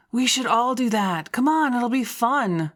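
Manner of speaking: bright, eager invitation; rally everyone with excitement; excited. Acted. J C claps, eager.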